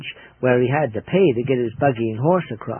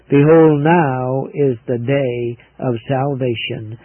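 preaching; slower than usual. Real, not acted. Preacher quoting the Bible.

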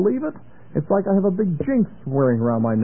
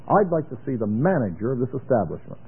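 kindly; 4 semitones lower than usual. Shown as a demonstration. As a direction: ask gently for the manager. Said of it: "I ought to say it kindly".

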